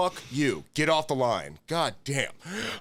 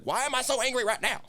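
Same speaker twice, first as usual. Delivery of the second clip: mock exasperation; 11 semitones higher than usual. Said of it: "it's just like".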